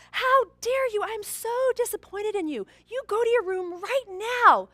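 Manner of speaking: retold furious father yelling; angry scream. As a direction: shout her off to her room. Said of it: "he begins to scream at his daughter".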